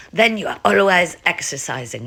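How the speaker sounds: lightly put-on Russian accent; jokey attempt at a Russian accent; bad Russian accent. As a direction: imitate a Russian ballet teacher, badly. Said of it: "Well, that was a bad accent".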